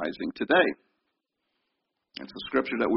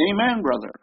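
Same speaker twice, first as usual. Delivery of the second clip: high, loud call of amen and hallelujah; congregation shouting back; 7 semitones higher, 6 dB louder than usual. Retold or imitated. Congregation member shouting back at the preacher, high and loud. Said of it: "they'll shout right back at the preacher".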